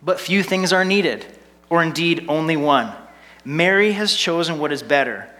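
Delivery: lightly patronizing, gently talking down; a touch of weary condescension; condescending Jesus. Retold or imitated. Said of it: "I put on this kind of condescending voice for Jesus".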